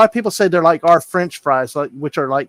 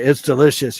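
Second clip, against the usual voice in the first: Southern accent; 3 semitones lower than usual. Shown as a demonstration. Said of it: "You should say".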